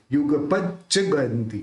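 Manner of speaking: युगपच्च with the doubled च्च pressed hard; stress on पच्च. Shown as a demonstration. Teacher shows students the pressed doubled consonant in युगपच्च. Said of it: "थोड़ा जोर से बोलेंगे".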